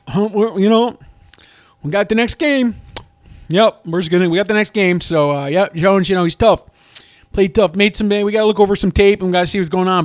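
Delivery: mock coach cliches. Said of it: "Just don't give the".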